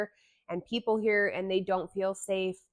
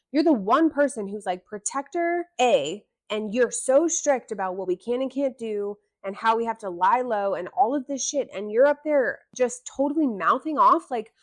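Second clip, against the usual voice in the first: rising, louder exasperated rant; frustrated rant; 3 semitones higher, 4 dB louder than usual. Real, not acted. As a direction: vent your real frustration, building up. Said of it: "it's my frustration coming through".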